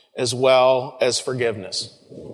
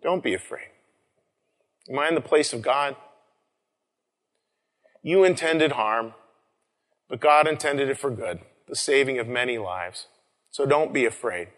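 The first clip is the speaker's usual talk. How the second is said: reassuring. Acted. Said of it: "He reassured them".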